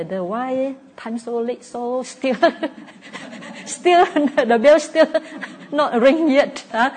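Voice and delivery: high, loud, laughing through the restless thought; giggling impatient meditator wondering about the bell; laughing mock impatience. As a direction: act out an impatient meditator, cracking up. Restless meditator mocks waiting for bell.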